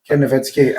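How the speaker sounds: Nowitzki with a "vitski" ending; correct name pronunciation. Shown as a demonstration. Repeating the correction for co-host, Nowitzki pronounced "no-vitski". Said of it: "it's pronounced Nowitzki".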